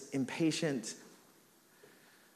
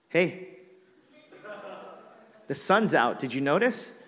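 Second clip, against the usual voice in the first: pointed complaint; 3 semitones higher, 3 dB louder than usual. Retold or imitated. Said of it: "I'm angry".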